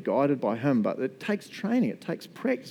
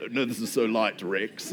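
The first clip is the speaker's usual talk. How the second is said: pretend effortless; 6 semitones lower, 5 dB quieter than usual. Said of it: "I pretended".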